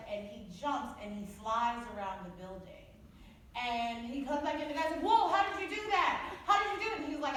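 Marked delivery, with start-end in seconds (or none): 5.0-7.0 higher and louder, stunned disbelief; amazed gasp. Acted. The bar guy marvels at the flying man, higher and louder. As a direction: gape at the impossible flight.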